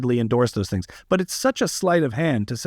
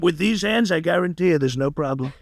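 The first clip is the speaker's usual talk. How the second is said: light Trump voice, boasting; a hint of a bragging Trump masseuse; Donald Trump impression. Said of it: "If I made Trump a masseuse".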